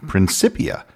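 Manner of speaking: "Principia" with an S sound, prin-SIP-ia; soft-C pronunciation. Retold or imitated. Host reads a listener's comment, "Principia" with an S sound. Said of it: "heard the word Principia with a K".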